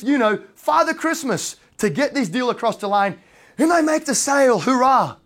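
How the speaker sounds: a mock-proud agent crowing over finally closing the deal; triumphant agent. Agent retells his hard-won sale.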